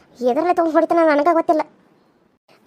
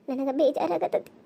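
low, slow and soft, heavy with guilt; sad murmur; 4 semitones lower, 8 dB quieter, slower than usual. Acted. Guilty wife to herself, slow sad murmur. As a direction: sigh the words out slowly.

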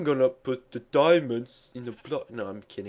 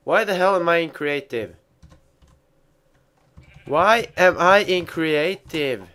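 surprised; 5 semitones higher, 7 dB louder than usual. Real, not acted. Confused outburst.

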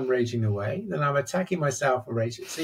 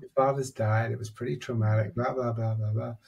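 calm inner voice soothing a man after his rage. Retold or imitated. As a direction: settle him down gently, almost breathing the words. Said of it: "It was this very calming voice".

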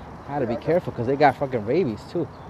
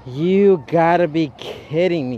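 disbelief; 4 semitones higher, 6 dB louder, much slower than usual. Real, not acted. Pokemon fled, disbelief.

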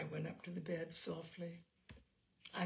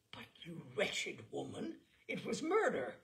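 horrified accusation. Acted.

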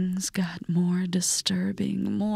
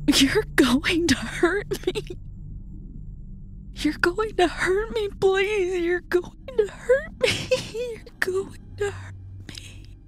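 high, rising hysterical sobbing, breaking into a crying laugh; 11 semitones higher than usual. A narrator's reading. Terrified double begging the narrator, hysterical sobbing. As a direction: spiral from pleading into frantic sobs.

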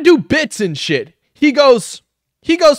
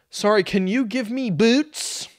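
mock request climbing higher and higher; mocking customer impression; 6 semitones higher than usual. Reactor imitates Shane ordering at McDonald's, mocking and increasingly high. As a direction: imitate an absurdly demanding customer, pitch rising steeply. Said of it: "If he goes to fucking McDonald's and goes".

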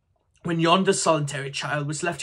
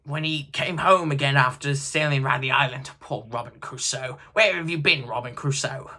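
higher, louder, rising to a shout; gleeful; 3 semitones higher, 7 dB louder than usual. A narrator's reading. Scrooge lost in boyhood stories, gleeful. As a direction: build into a wild joyful whoop.

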